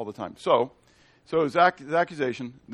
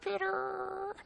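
calling out; 10 dB quieter than usual. Acted. Calling out to Peter.

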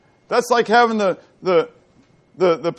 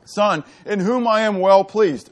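voice of the Father; 4 semitones higher, slower than usual. Retold or imitated. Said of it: "And the Father says".

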